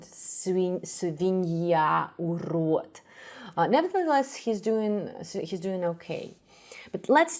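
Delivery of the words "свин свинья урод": put-on свинья, урод with an English accent, suvinia urut; American accent in Russian. Teacher imitating the actor's accented Russian lines. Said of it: "speak with an accent".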